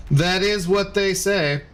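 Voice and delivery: slow, weighty pronouncement; mock solemn. Streamer repeating chat's myth, slow mock-solemn intoning. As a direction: intone it like an old saying.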